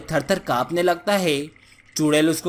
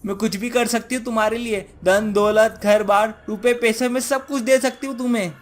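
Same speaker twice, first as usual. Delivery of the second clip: slightly raised, eager bargaining voice; pleading witch, bargaining; 4 semitones higher than usual. Acted. Witch offering riches to the villager, pleading bargain. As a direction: offer anything to be spared.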